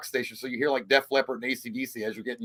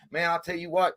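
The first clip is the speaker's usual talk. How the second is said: subtle Kentucky accent; 3 semitones higher than usual. Shown as a demonstration. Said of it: "I do it subtle".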